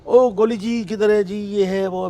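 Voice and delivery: calling out high, loud and slow; a manager hollering eagerly for him down the office; excited calling out. Retold or imitated.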